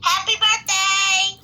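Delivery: drawn-out birthday cheer, lightly called out; mock scream. Tooth fairy waking a child to be friends, mock scream. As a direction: stretch it out like a mild scream. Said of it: "she will, she will scream".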